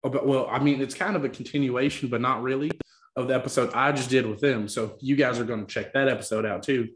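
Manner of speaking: committed mock Southern accent; put-on Southern accent. Host introducing today's episode, put-on Southern accent. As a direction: hold the playful Southern accent. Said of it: "the commitment to the accent".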